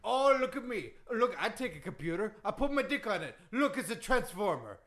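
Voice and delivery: put-on indignant accented wrestler rant; Iron Sheik. Wrestler disputing history with the host, indignant accented rant. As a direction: complain in broken English. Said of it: "that Iron Sheik impression".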